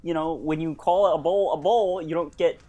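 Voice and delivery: Kermit the Frog impression; earnest Muppet frog voice. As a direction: talk like the hesitant talking frog puppet.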